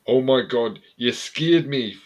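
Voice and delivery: half-successful Scottish impersonation, pushed up and loud; attempted Scottish accent. Shown as a demonstration. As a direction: have a shaky go at a Scottish accent. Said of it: "Say that in a Scottish accent".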